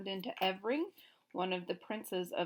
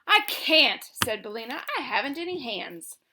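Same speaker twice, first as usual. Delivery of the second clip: higher, louder hen voice; cheeky hen; 4 semitones higher, 10 dB louder than usual. A narrator's reading. Billina pertly telling the king she has no hands. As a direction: pert reply.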